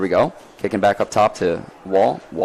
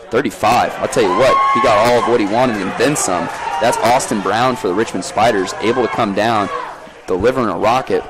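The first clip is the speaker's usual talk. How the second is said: excited goal call. Real, not acted. Commentator calling a rocket of a goal, excited. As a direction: ride the energy of the goal.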